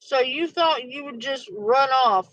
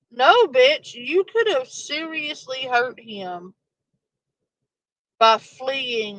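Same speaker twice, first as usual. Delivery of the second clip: exasperated retort. Real, not acted. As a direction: snap back in disbelief. Scolding driver in the clip.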